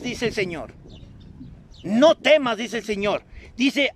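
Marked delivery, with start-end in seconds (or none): 1.8-2.6 a sudden louder burst on no temas; preacher booming God's reassurance; loud command. Acted. Preacher proclaims God's word to Lili, loudly.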